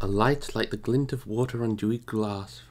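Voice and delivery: measured storytelling read, unhurried; calm audiobook narration; story narration. A narrator's reading. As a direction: read it like a bedtime chapter. Resumes reading the story.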